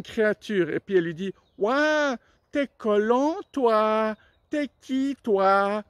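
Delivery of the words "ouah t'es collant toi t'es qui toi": lightly raised, wide-eyed frog voice; a big-mouthed frog gawking at a stranger. Acted. Frog greeting the anteater, raised and wide-eyed.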